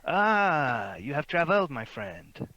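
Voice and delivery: put-on effusive fop with a French-style Bretonnian accent. Fop flattering a cultured traveller, Bretonnian accent. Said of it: "he says in Bretonnian".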